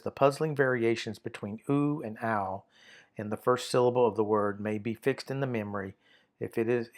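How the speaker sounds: reads the textbook passage aloud, measured; reading aloud. Shown as a demonstration. Teacher reading the textbook rule to students, measured. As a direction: read the grammar note out to the class. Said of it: "that says".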